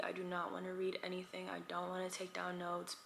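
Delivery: breathy unvoiced whisper, soft and weary. Real, not acted. Tired vlogger dreading study, whispering. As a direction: whisper it like you can't face the books.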